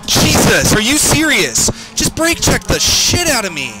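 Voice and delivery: high, loud outraged yell; angry yelling. Real, not acted. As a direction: yell at the car that brake-checked you. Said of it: "sorry for the yelling".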